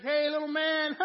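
high, loud mock greeting; playful shout. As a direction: call out teasingly to a tiny figure. Playfully calling to snow globe figure.

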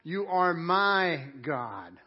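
slow, weighty stress on "my". Retold or imitated. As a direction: draw out "my" in a deliberate declaration. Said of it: "He cries out".

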